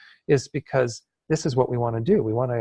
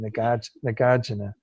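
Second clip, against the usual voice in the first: New York accent. Shown as a demonstration. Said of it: "sound like you're from New York".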